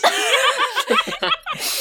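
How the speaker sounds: real high laugh bursting out; high burst of laughter. Real, not acted. Game master laughing at the slap, real high laughter. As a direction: crack up at the player's slap.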